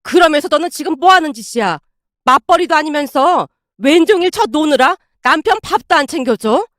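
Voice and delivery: indignant, relentless telling-off; sharp rebuke. Acted. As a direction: lay into a daughter crossly. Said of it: "아내에게 쏘아붙이고 있었고".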